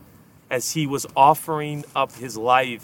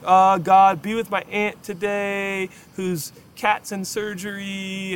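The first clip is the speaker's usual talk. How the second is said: mock polished prayer; 5 semitones higher, slower than usual. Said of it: "we think of prayer as like".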